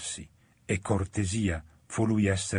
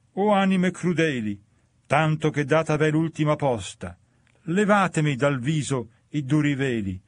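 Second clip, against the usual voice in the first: a damned soul crying out, higher and louder; 4 semitones higher, 3 dB louder than usual. Acted. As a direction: call out to the passing souls in anguish. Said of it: "gridò a noi". (grido straziante, più acuto e più forte)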